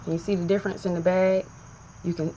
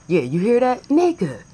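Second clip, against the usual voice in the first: higher, louder panicked voices; mock alarmed couple; 7 semitones higher, 5 dB louder than usual. Partner to partner at a noise, mock alarmed. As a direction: play both partners startled by a noise.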